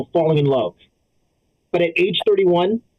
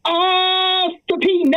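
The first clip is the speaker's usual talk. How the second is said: put-on West African accent; 12 semitones higher, much slower than usual. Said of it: "my impression of an African process server".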